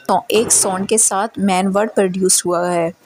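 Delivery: ordinary delivery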